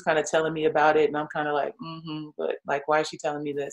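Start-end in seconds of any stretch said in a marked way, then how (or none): 1.8-3.7 puzzled inner voice. Retold or imitated.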